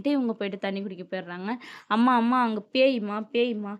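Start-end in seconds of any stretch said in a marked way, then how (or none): 1.9-3.7 louder cry to mother, easing off; retold urgent calling out; mock alarm. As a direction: act a child's fright, lightly. Frightened children report a ghost.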